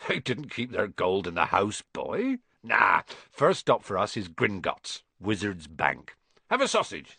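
breezy reassuring giant; hearty giant waving worries away; Hagrid voice. Acted. Hagrid reassuring Harry about his gold, breezy.

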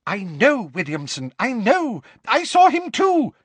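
high, loud, babbling panic; flustered minister, voice climbing high; gibbering. A narrator's reading. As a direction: gabble it out like a man out of breath. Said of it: "gibbered Fudge".

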